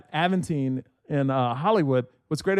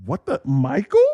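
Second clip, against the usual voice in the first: lower, questioning double-take; puzzled recognition; 5 semitones lower than usual. Retold or imitated. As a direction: imitate a puzzled onlooker spotting someone. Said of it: "it kind of like".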